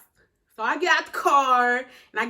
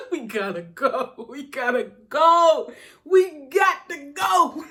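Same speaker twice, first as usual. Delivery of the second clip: building urgent shout; 2 semitones higher, 4 dB louder, slower than usual. Retold or imitated. Panicked girl urging her friend out of the house, building to a shout. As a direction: press harder on each repeat. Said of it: "I'm like".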